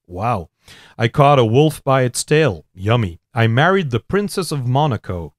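put-on a poem read aloud in a lively American accent. Reading the poem to the host on request, in an American accent. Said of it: "Het is een Amerikaan, ik voel het zo".

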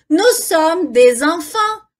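"des enfants" linked with a Z sound, slowly; clear liaison. Shown as a demonstration. Teacher pointing out the liaison in "des enfants", slow and linked. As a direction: join "des enfants" as "dez-enfants", taking it slowly. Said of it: "tem liaison aqui".

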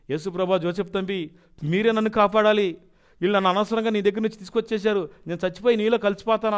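retold weeping plea; crying prayer. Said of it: "ఏడుస్తున్నానండి".

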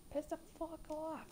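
trailing off soft; fading curse. Real, not acted. Gamer muttering the curse, worn out. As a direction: let the curse fade out.

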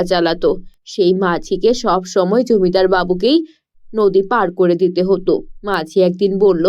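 a tired fisher parent explaining gently. Acted.

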